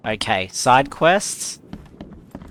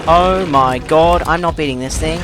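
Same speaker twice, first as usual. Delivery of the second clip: panicked yell; 4 semitones higher, 5 dB louder than usual. Real, not acted. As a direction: shout it as the monster closes in. Monster attacking player.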